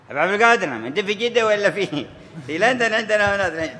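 high-pitched, incredulous questioning; astonished caller. Retold or imitated. Baffled traveller phoning the Habib's house in Jeddah, high and incredulous.

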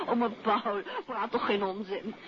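amused, brushing off the flattery; giggling dismissal; laughing protest. Acted. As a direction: laugh through the words. Flattered wife brushes off compliment.

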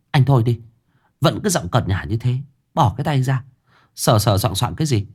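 ex-girlfriend snapping at him to let go of her hand, mildly voiced; lightly voiced annoyed woman. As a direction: brush him off like an irritated ex. Ex pushes his hand away.

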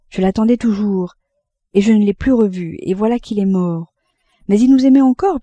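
lightly voiced mother pouring out her heart; mother's impassioned confession. Mother confessing her lost lover to her son, impassioned. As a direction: confess a lost love with earnest, rising emphasis.

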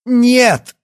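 high, loud scream of despair; desperate cry. A narrator's reading. Yana, desperate, screaming at the doctor. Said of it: "в отчаянии крикнула Яна".

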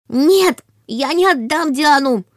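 high, loud roaring cry; dragon roar. A narrator's reading. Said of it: "послышался рык".

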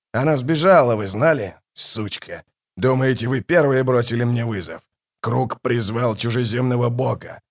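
lightly voiced scornful king, mostly quiet; a hint of a mocking tyrant. Kallor mocks the gods who came to him, lightly mocking king. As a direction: sneer at the gods from the throne, lightly.

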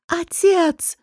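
high, desperate call to father; a son's shocked cry over the wounded king; anguished cry. A narrator's reading. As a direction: cry out as he falls. Son sees his dying father.

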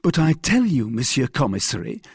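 high, loud protest; insistent cry. A narrator's reading. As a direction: cry out to convince the commissary. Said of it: "cried Bonacieux in his turn".

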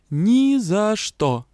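each word hammered out, slow and loud; clipped refusal. Acted. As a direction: rap out every syllable. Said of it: "отчеканила".

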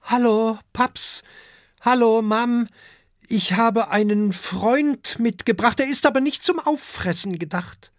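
put-on high, loud child-dragon voice; young dragon Oskar. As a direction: greet your parents in a high-pitched kid voice. (hohe Drachenkinderstimme)

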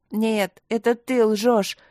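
loud, high angry shout. A narrator's reading. Boy shouting back at the voice, loud and high. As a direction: scream the accusation back. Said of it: "закричал мальчик".

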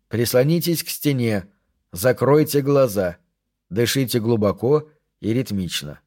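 measured calming instructions; gently hypnotic cadence; slow, almost hypnotic. Acted. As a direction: guide them evenly, as if lulling into calm. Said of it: "Голос звучал медленно, почти гипнотически".

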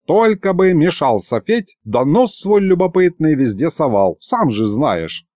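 lightly voiced scolding old man; old grandfather. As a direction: chide fondly as a grandpa. Narrator voices old Mikhalych.

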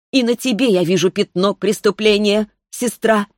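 put-on a child spirit passing sentence, unhurried; sweet young voice. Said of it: "Райна произнесла".

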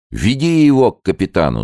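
loud, high angry yell; crowd shouting. A narrator's reading. Villagers demand Gao be taken, loud shout. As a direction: shout him toward the captain. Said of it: "закричали столпившиеся гелики".

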